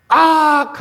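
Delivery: put-on youngest child's high "악!" shriek; mock high yelp; retold scream. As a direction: yelp 악 as the scared kid. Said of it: "하고 소리 지르고".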